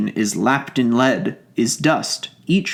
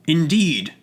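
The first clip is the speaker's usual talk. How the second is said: mild surprised cry; 4 semitones higher than usual. Acted. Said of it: "cries Mister Dodsworth".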